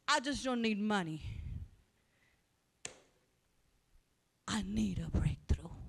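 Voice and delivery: very slow, soft, breathy whisper; hushed whisper. Real, not acted. Preacher confiding her real need, slow whisper. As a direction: confide it slowly under your breath. Intimate prayerful confession after shouting.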